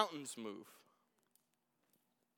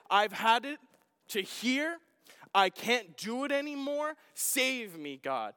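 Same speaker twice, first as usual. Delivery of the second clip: desperate cry to God; 5 semitones higher, 3 dB louder than usual. Retold or imitated. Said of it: "That cry that says".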